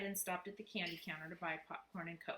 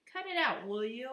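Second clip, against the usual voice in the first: loud, higher snap at teasing; exasperated; 6 semitones higher, 8 dB louder than usual. Acted. Boy to teasing brothers, loud exasperated. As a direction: shut them down, fed up. Annoyed brother snapping back.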